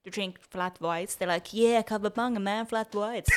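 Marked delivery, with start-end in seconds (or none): 1.5-3.3 mock Australian. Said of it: "isn't that an Australian thing".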